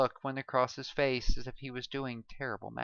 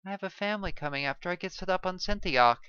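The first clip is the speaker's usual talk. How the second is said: begging; 7 semitones higher, 4 dB louder, much faster than usual. A narrator's reading. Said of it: "Kevin begged".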